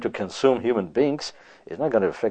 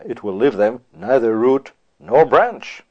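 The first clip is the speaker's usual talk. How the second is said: slow scripture reading; slower than usual. Acted. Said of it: "the God of Israel says".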